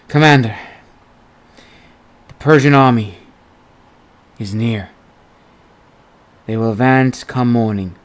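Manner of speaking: breathless, panting between words; gasping report after running; out of breath. A narrator's reading. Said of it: "The scout had to catch his breath before replying".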